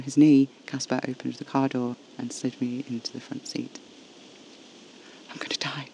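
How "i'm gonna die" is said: soft, weak whisper; hushed, breath-only whisper. A narrator's reading. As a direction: whisper it, barely voiced. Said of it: "I whispered".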